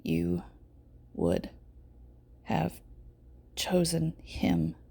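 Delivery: soft, slow whisper, each word an effort; faint halting whisper. A narrator's reading. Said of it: "whisper out five words slowly".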